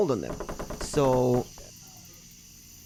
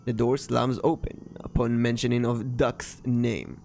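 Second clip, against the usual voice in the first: story narration; slower than usual. A narrator's reading. Narrator describing the door slamming open, story narration.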